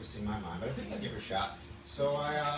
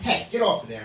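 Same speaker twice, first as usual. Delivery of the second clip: raised voice at a cat; mock scolding; 6 semitones higher, 9 dB louder than usual. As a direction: call out a quick telling-off.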